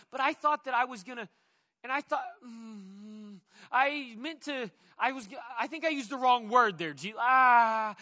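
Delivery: stammering then breaking into a frustrated shout; flustered Peter. Retold or imitated. Peter rebuked and fumbling for words, flustered shout. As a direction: stumble for words, then blurt. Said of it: "he's just confused".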